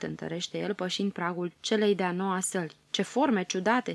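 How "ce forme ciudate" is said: wondering. Acted. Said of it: "se minună copila".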